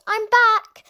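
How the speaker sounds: excited. A narrator's reading. Philip arriving home.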